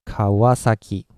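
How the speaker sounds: even-volume ka-wa-sa-ki, falling at the end; Japanese pitch. Shown as a demonstration. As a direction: glide through Kawasaki without punching a syllable. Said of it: "I guess it's like".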